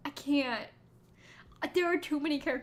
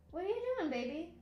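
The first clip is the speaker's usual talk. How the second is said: cooing to a pet; 4 semitones higher, 4 dB quieter, faster than usual. Real, not acted. Owner to her cat, cooing. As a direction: coo it, dropping at the end.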